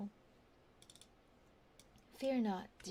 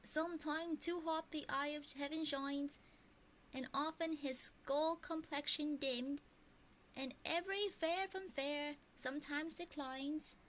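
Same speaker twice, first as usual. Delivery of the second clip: higher-pitched, put-on mock Texan accent reading Shakespeare; made-up Texan-ish accent; 6 semitones higher than usual. Streamer reads a Shakespeare sonnet to chat in a made-up Texan-ish accent. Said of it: "This accent exists nowhere".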